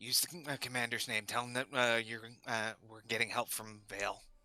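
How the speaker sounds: quiet, hushed half-whisper, stage whisper. Telling a companion to name the commander, half-whispering in character. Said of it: "Alar's gonna whisper".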